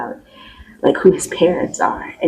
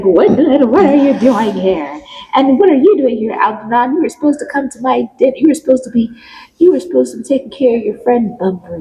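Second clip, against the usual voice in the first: scolding mother; 5 semitones higher than usual. Retold or imitated. Lady Bracknell scolding, high.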